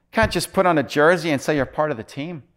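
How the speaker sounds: put-on high, loud Scottish accent. Pastor quoting a Scottish preacher on team jerseys, Scottish accent. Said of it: "in his Scottish accent".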